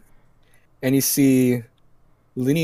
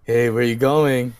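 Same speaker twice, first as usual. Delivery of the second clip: hammy ruffian; 3 dB louder, slower than usual. Acted. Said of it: "he's a bit hammy".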